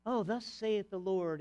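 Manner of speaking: slow, put-on old-fashioned pulpit voice; lightly hammed thee-and-thou preaching; mock archaic preacher. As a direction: parody a pompous King James preacher, drawn out. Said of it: "you're saying thys and these and those".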